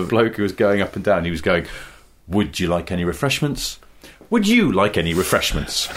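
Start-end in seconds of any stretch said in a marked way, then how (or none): 2.3-3.8 Would stressed, the rest lighter and low. Retold or imitated. Imitating train trolley man, stress on Would. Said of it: "moving the emphasis down the sentence". 4.3-5.9 you pushed up and stressed. Retold or imitated. Imitating train trolley man, stress on you. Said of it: "moving the emphasis down the sentence".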